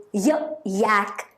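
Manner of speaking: "Y" said as a short "yuh", then "yak"; consonant Y sound. Shown as a demonstration. Teacher showing the sound Y makes, phonics demo. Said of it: "the letter Y is making the Y sound".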